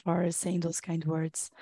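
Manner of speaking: hoarse from a cold, really sick. Real, not acted. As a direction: talk through a sore throat. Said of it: "I apologize in advance for my kind of sick voice".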